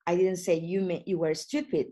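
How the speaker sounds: "didn't" leaned on, rest of the line even; "didn't" carries the weight, "stupid" stays flat; stress on DIDN'T. Shown as a demonstration. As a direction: push the word "didn't" as the denial. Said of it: "it depends where do you put the focus".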